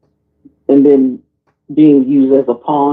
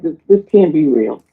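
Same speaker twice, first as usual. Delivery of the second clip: disbelief; 6 semitones higher than usual. Retold or imitated. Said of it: "I was like".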